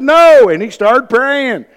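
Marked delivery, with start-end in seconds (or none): 0.0-0.5 flat refusal. Retold or imitated. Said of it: "I said".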